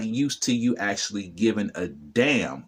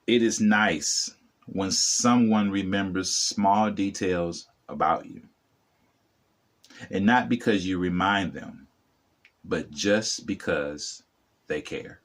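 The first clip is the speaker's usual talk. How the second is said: sincere quote reading; 2 semitones lower than usual. Acted. Reads the quote back slowly.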